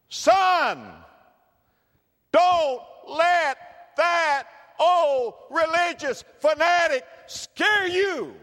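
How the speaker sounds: high, loud mocking old man; hammed-up scornful old dad; scoffing grandfather. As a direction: sneer at the fanatic with a shout. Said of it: "You know what my dad said".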